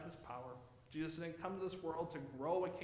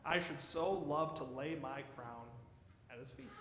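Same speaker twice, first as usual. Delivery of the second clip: Queen Victoria; 4 semitones lower than usual. Retold or imitated. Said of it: "you know what Queen Victoria said?".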